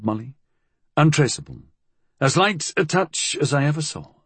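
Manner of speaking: lightly voiced Fool, pitched a little up; resigned, matter-of-fact character voice; Fool's measured voice. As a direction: read Fool's dialogue with understated weariness.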